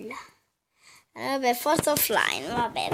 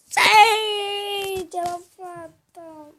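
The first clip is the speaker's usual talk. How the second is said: excited shout; 6 semitones higher, 4 dB louder, much slower than usual. Real, not acted. Winning the shot.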